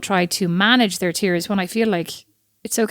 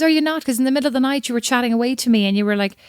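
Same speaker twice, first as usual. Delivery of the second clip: lightly imitated husband, pitched higher; higher-pitched, mildly mocking quote of a husband; puzzled husband; 5 semitones higher than usual. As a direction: play the innocent, baffled partner. Retells husband's puzzled morning reply.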